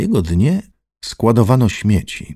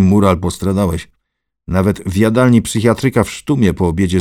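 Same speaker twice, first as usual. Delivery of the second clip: loud, scolding and haughty; loud domineering scolding; arrogant Lichutki; 6 dB louder than usual. Acted. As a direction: lecture him from above. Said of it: "mówił innym głosem".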